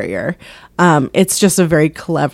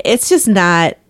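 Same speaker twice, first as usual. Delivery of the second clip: ordinary talk, nothing marked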